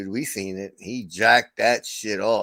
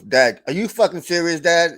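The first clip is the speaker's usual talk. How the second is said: put-on exasperated kid; 6 semitones higher, 4 dB louder than usual. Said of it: "he goes".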